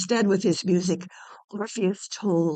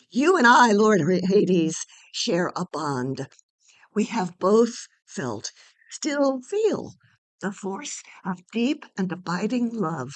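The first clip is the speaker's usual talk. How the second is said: impassioned appeal; 5 dB louder than usual. Acted. Orpheus passionately appeals to Hades.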